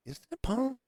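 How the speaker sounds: high, soft, surprised question; a hopeful double take, barely voiced; asking in wide-eyed disbelief; surprised recognition. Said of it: "I say Paul like we're homeboys".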